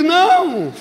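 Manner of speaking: high mock-crying "no"; tearful retold answer. Weeping pastor answering the doctor holding the injection, tearful.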